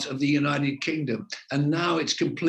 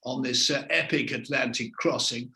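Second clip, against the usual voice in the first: a hint of an old-fashioned reporter's delivery on the dockside; old-style TV reporter; 2 semitones higher than usual. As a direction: mimic his own early broadcast voice, only a touch. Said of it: "And I spoke like that".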